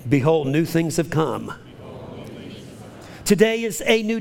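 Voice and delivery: rhythmic call-and-response declaration, rising to a fervent build; leading a confession. Acted. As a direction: proclaim each line for the church to repeat. Leads congregation in spoken confession.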